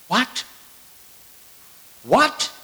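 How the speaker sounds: high rising disbelief, twice; can't believe what he just read; incredulous what. Real, not acted. Stunned reaction to forgiven debt.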